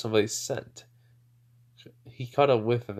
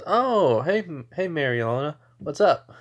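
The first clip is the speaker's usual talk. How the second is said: higher-pitched "oh, hey" greeting; surprised greeting; 5 semitones higher, 3 dB louder than usual. Acted. He meets Mary Ilona on the way, surprised greeting. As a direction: greet someone you just ran into, pitched up.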